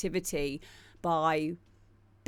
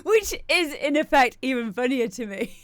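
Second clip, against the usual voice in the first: laughing; 5 semitones higher, 3 dB louder than usual. Real, not acted. Laughing at own joke.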